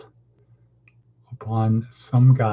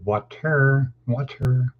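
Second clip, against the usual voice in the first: water in a Minnesota accent, ending on a clear r; 2 semitones higher, slower than usual. Shown as a demonstration. Showing how Minnesotans say it, Minnesota accent. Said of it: "maybe from Minnesota, Sota, you, people would say".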